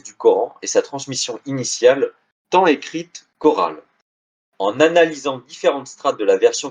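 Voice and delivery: measured, articulated read-aloud of a scholarly blurb; formal reading with lifted phrase openings; reading a quotation aloud. Acted. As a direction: read the book's back cover out to an audience. Reads the back cover aloud.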